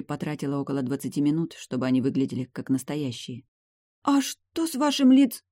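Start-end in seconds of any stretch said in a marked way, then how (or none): 4.0-5.4 high, slow, breaking off stunned; stunned gasp. Acted. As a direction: freeze mid-word in shock. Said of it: "обомлела девушка".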